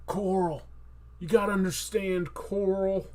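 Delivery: lightly voiced earnest father; Rick from Walking Dead. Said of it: "Rick from Walking Dead".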